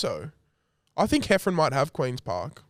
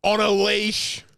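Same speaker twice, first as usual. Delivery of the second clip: slow, higher-pitched mock scolding; imitating old lady; 4 semitones higher, slower than usual. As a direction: stretch the words out like a disapproving old lady. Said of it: "Like that".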